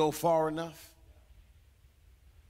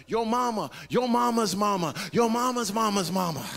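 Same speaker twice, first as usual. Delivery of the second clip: louder, hammed-up insults with a laugh; mock cursing; 4 semitones higher, 4 dB louder than usual. Peter cursing the crowd, mock-angry and louder. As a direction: playfully ham up a curse. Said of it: "starts calling down curses".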